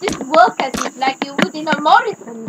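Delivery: put-on light French accent; mock French aside. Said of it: "You did it again".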